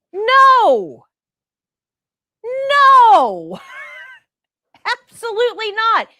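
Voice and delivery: indignant outcry. Real, not acted. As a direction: cry out in disbelief. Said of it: "nurse's own indignant reaction".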